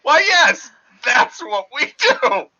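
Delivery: high, slow goofy cartoon mouse; Pinky voice. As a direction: agree cheerfully like a dim mouse. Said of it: "It's two mice".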